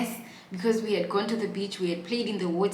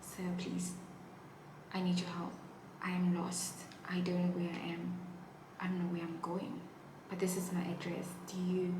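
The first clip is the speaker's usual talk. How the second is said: hushed plea; 7 dB quieter than usual. Retold or imitated. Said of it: "and I tell him that".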